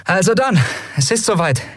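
brisk captain pushing fast past her fear; nervous captain. Acted. Endriel rallies crew.

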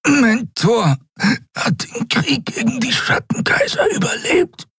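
hoch, stockend, nach Atem ringend; keine Luft. A narrator's reading. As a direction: presse Wortgruppen zwischen Atemzügen heraus. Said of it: "Ich kriege keine Luft". (gequält und atemlos)

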